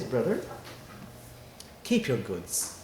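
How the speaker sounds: soft, tender, unhurried counsel; loving. Retold or imitated. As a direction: speak gently, as to a dear brother. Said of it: "looks at him very lovingly and says".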